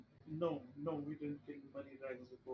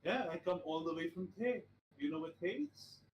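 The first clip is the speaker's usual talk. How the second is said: put-on Thay accent; 3 semitones higher than usual. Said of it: "that's where this accent is from".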